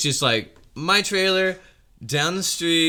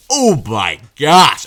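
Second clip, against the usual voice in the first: drawn-out, louder stunned gasp of words; slow awed oh my gosh; 6 dB louder, much slower than usual. Retold or imitated. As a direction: stretch it out in disbelief. Awed reaction to loud noise.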